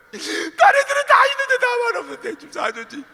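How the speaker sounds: high, loud tearful whine; wailing plea; crying child. Acted. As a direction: beg through sobs like a child. Child sobbing for toy.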